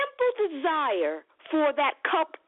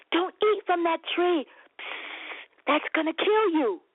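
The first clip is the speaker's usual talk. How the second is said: God's warning; 5 semitones higher than usual. Retold or imitated. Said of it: "Just like God said".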